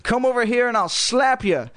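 high, squeaky dummy threat; high ventriloquist's puppet voice; Slappy, lips held still. A narrator's reading. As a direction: squeal it through teeth without moving the lips. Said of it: "trying not to move her lips".

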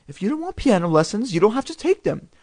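calm, soothing reassurance. A narrator's reading. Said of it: "keeping her voice in a low, soothing tone".

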